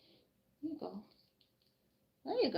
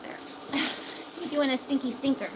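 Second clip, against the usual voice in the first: screechy pet voice; 5 semitones higher than usual. Real, not acted. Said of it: "Sorry for the screeching".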